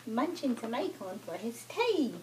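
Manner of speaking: lilting picture-book narration; children's story reading. Acted. Mother reads a farm book to her toddler, children's story reading. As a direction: read rhymes to a toddler.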